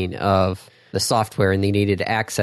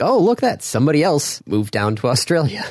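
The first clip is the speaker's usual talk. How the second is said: mock surprise; 5 semitones higher than usual. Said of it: "be like".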